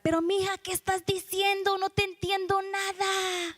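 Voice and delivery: high, plaintive mother's voice; baffled Mexican mother. Acted. Mother to daughter back home in L A, baffled high-pitched complaint. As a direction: wail it like a baffled mom. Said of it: "her mother would be like".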